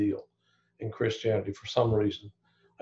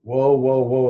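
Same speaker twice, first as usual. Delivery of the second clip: calling woe; 6 dB louder than usual. Retold or imitated. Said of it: "It's like".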